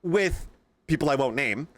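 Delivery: high heated retold rant; retold telling off. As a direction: replay the heated rant at the teacher. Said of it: "I said".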